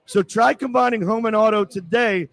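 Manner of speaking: sponsor read with jabs at the hosts; sarcastic radio ad read; mocking ad read. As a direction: read the ad straight, slip in the insults. Host reads the sponsor ad.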